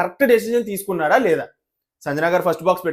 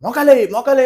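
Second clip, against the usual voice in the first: loud, higher, haughty mimicry; arrogant mock scolding; 5 semitones higher, 6 dB louder, slower than usual. Vlogger mocks host scolding the boys, loud and haughty. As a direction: sneer it like a proud judge. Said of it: "అబ్బాయిలతోనేమో గీరగా".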